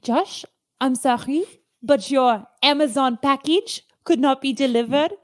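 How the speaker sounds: mock French accent breaking bad news; playful French-accented apology. Shown as a demonstration. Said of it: "All right, try it with me".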